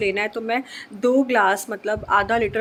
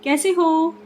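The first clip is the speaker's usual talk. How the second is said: talking to a little one; 6 semitones higher, 4 dB louder, slower than usual. Real, not acted. Prompting a little one to say how they are, higher-pitched coaxing.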